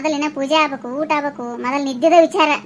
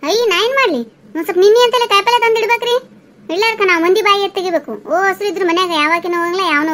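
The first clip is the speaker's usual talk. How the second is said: raised, indignant self-defence; exasperated, higher-pitched complaint; cross retort; 3 semitones higher, 4 dB louder than usual. Acted. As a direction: snap back that it's not your fault. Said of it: "ಅಷ್ಟೇ ಯಾಕೆ ಸಿಟ್ಟಿಗೆ".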